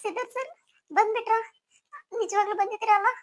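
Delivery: high, tearful disbelief; wife weeping with relief; crying. Acted. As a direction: sob out relief he is back. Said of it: "ಯಾಕೆ ಇಷ್ಟೊಂದು ಅಳ್ತಿದ್ಯಾ?".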